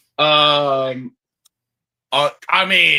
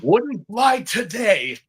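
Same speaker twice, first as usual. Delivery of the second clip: emphatic; 6 semitones higher, slower than usual. Real, not acted. Emphatic disapproving remark.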